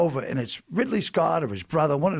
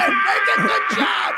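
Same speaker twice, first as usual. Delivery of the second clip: much higher, louder and slow; outraged exclaim; 7 dB louder, slower than usual. Real, not acted. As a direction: drag it out in disbelief. Outraged at losing the part.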